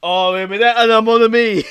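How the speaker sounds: mock French accent. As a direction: purr it like a cartoon Frenchman. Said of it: "the French gun".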